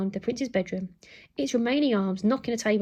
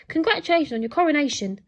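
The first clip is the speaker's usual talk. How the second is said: high, loud robot butler proclamation; posh robot voice; 5 semitones higher, 6 dB louder, faster than usual. A narrator's reading. Robot butler's last words as it's shoved out, posh robot. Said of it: "in its posh robot voice".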